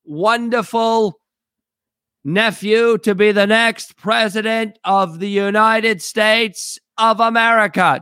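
stately Kennedy oration, drawn out; Kennedy impression. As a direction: play JFK addressing the nation from heaven. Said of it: "Did I do an okay job? Is that an okay Kennedy?".

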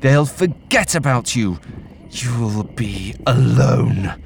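otherworldly spirit, cold and coaxing; eerie ghost voice. Acted. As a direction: whisper doubt into her ear like a ghost. Ghost taunting suicidal woman.

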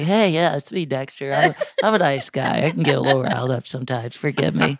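Maria Bamford style pet voice; lightly voiced dog persona. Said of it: "my voice I use for my dog Dexter".

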